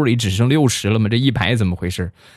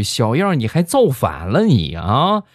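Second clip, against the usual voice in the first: playfully indignant scolding, raised pitch; mock scolding; 4 semitones higher than usual. Cousin rounding on her defiant boyfriend, mock scolding. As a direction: put him in his place, half in earnest.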